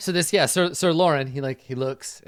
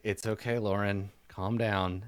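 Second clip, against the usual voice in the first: low, soft reassurance; calming companion; 5 semitones lower, 5 dB quieter, slower than usual. Acted. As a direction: quietly settle down an excitable knight. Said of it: "the woman in the boat is just like".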